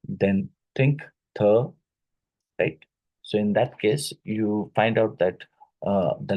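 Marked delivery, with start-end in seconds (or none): 1.4-1.7 th sounded alone as "thuh", louder; isolated sound demo. Shown as a demonstration. Teacher identifying the sound in think, th said loudly as "thuh". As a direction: push out th as a short "thuh". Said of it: "identify the corresponding I P S sounds".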